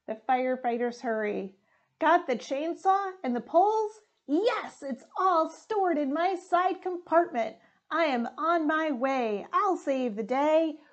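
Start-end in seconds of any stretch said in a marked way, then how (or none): 2.0-10.2 truck voices. Acted.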